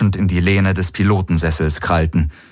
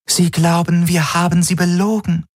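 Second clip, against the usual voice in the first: raised, otherworldly alien voice; eerie alien Schattenhelix; 10 semitones higher than usual. Acted. The Schattenhelix tells Garland the Golvonen feel lied to, cool. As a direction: state it like a detached alien mind. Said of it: "sagte die Schattenhelix".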